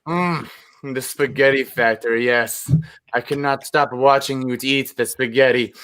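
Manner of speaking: mock sexy love letter. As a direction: savour the memory in a mock-sultry murmur. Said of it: "That's a very sexy".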